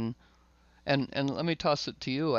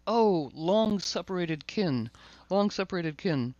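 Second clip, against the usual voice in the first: enthused dog; 4 semitones higher than usual. Retold or imitated. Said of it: "he was so enthused".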